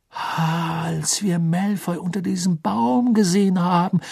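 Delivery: slow, dawning realisation; slowly. Acted. Ron working out how Malfoy helped Rita, speaking slowly. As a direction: draw each word out as it clicks. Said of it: "sagte Ron langsam".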